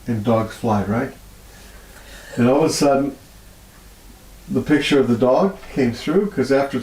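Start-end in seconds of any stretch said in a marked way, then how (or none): 0.1-1.1 dry, mock-sarcastic aside. Real, not acted. Healer recalling her own doubt, lightly sarcastic. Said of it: "And sarcastically".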